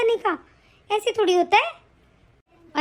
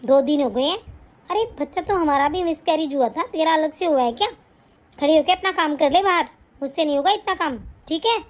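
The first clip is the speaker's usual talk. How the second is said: put-on lower, scolding older woman's voice; mother-in-law bossing her son's wife, lowered scolding voice; nagging mother-in-law; 6 semitones lower than usual. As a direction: berate the bahu like a harsh saas. Scolds bedridden daughter-in-law.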